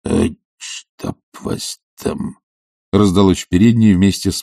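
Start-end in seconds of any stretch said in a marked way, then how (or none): 0.0-2.4 much lower, slow grumbling growl; grumpy old servant's low rumble; bearlike growl. Acted. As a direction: growl like a roused bear. Zakhar growls from the hall.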